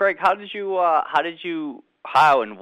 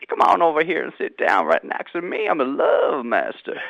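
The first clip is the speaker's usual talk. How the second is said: mock love master; 2 semitones higher than usual. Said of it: "So go ahead".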